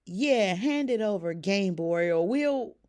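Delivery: loud, mock menacing demand; tough-guy threat. Ducky playfully threatening the booth guy, loud. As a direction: threaten like a cartoon gangster. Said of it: "Ducky laughed and added".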